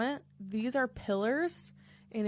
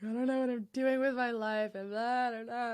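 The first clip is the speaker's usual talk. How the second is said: mock whining; 3 semitones higher than usual. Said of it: "I'm crying and whining".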